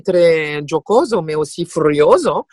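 rounded Italian accent on "giocoso" and "furioso". Shown as a demonstration. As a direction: play up the round Italian vowels. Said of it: "l'accent italien qui est très rond".

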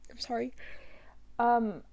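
real whispered apology, overcome; emotional apology. Real, not acted. Apologizing while recalling grandma's death, emotional and whispered. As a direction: barely voice it, very soft. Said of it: "gonna be an emotional topic".

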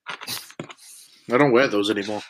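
slow whispered confession; hushed slow aside. Real, not acted. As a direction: breathe it out under your breath. Muttered aside.

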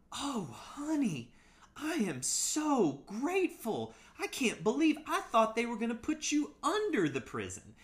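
put-on high, slow Southern drawl of a sweet old Mississippi lady; Mississippi grandmother accent. Grandson on the phone imitating his Mississippi grandma's high, slow Southern accent. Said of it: "honey dripping accent".

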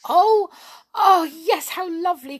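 high, loud squeal of joy; overjoyed little mermaid, pitched right up; delighted cry. A narrator's reading. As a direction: burst out with delight. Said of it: "cried the little mermaid".

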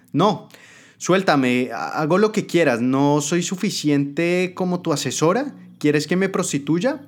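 high, pleading questions; desperate adviser. Acted. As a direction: beg to be released. Captive adviser begs.

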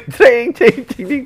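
high ceng ceng like cymbals; cymbal imitation. Comic mimicking the drummer's cymbals. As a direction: clash the cymbals with your voice.

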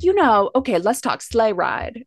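lightly voiced talk-show host impression; a hint of imitated TV host, slowing at the end; Wendy Williams. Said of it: "gets a little Wendy Williams in her voice".

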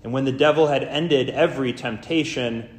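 formal, measured Gospel reading with weighted phrases; solemn lectern delivery with deliberate pauses; scripture reading. Real, not acted. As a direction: read it out to a congregation, phrase by phrase. Reads the Gospel aloud in church.

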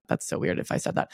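low, hushed self-conscious aside; whispered aside. Real, not acted. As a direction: drop to a whisper, half to yourself. Embarrassed aside after mock quote.

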